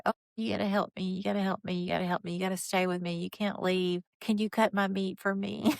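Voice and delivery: soft, whiny mock plea; a hint of helpless whining. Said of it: "she acts like".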